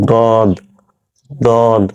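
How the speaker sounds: "দদ" as a drawn-out emphatic Arabic Dad; heavy, rounded d on "দদ". Shown as a demonstration. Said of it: "এই উচ্চারণটা দেখেন". (আরবি দোয়াদের মতো ভারী "দদ")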